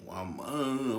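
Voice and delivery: slurred, drawn-out mumble; imitated mumbling. Patient answering doctors after waking, imitated mumble. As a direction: talk as if the mouth won't work. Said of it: "I'm mumbling".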